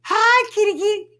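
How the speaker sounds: high, loud kitty call; calling a cat. Real, not acted. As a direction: call a cat in a sing-song. Greeting cat.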